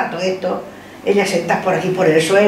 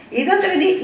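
high, shocked where-from question; scolding question; 10 semitones higher than usual. Retold or imitated. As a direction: demand where they've been.

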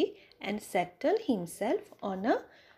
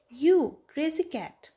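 panting; 6 semitones higher, 6 dB louder than usual. Acted. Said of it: "she panted".

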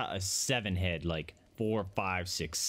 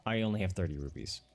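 much higher, bubbly sales pitch; high-pitched saleswoman voice; 7 semitones higher than usual. Acted. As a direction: play the chirpy house dealer, pitched way up.

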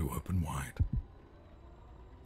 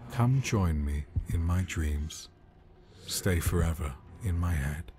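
louder, eerie coaxing invitation; sinister prince; 4 dB louder than usual. Acted. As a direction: lure him in with menace. Prince lures sheep into dreams.

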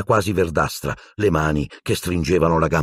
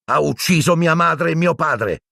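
roaring; 10 semitones higher than usual. A narrator's reading. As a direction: hurl the accusation in fury. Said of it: "ruggì Harry".

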